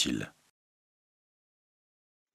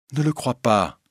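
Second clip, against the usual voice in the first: higher-pitched, insistent plea; urgent repeated plea; 6 semitones higher than usual. Acted. Christine begs the old lady not to believe it, urgent. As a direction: lift the pitch and plead.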